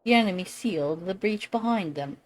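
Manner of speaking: rally the knights with grave pride; noble lord voice. Acted. Lord briefing the hero before the assault, stately. Reads NPC lord dialogue aloud.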